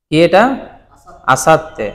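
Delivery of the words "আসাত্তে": আসাত্তে as asat-te, 't' held; doubled consonant. Shown as a demonstration. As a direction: pause on the 't' in আসাত্তে before 'te'. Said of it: "দুইবার উচ্চারিত হয়েছে".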